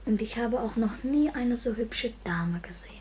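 hushed wonder. Acted. Boy confides softly in bed.

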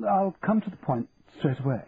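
a prim, businesslike auctioneer; Fothergill. A narrator's reading.

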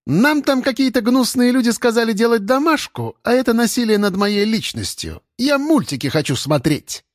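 piercing little voice. Acted. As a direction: rattle it off in a piercing child voice. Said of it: "Пронзительным голоском протараторила Марина".

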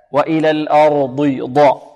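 dark, full dad closing الأرض; heavy dad. Shown as a demonstration. Teacher isolates the letter, heavy dad. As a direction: say الأرض with thick dad, then ضاء. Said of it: "الضاد هنا مفخمة".

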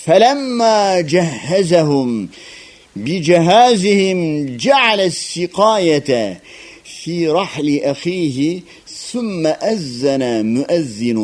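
solemn scripture reading, stretched out; Quran recitation. Acted.

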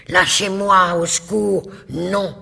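desperate high cry for help; panicked cry. A narrator's reading. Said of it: "qu'elle crie, éperdue".

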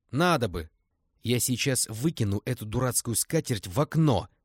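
furious shout. Acted. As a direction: snap at the men in a rage. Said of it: "взбешённо крикнула Лиза". (Лиза в бешенстве кричит на мужчин)

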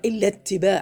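"اتباع" with a vowel sounded on its last letter ع; don't stop dead on the ع of "اتباع", vowel it; voweled final ع. Shown as a demonstration. Teacher correcting student's recitation, final ع of "اتباع" voweled. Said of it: "حرك العين".

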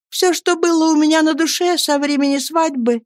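a gentle, submissive confession; meek and tender. Acted. Wife humbly opening her heart to husband, tender. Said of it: "тихо сказала она покорным и нежным голосом".

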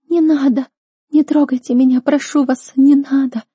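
put-on high, loud, pleading young girl; sobbing girl's plea. A narrator's reading. Terrified sister begs unseen captors, high sobbing plea. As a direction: beg them not to touch her, in tears. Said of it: "Девичьи рыдания".

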